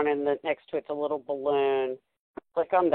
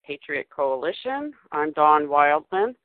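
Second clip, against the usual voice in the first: over the top. Acted. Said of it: "you sound so, um, over the top there".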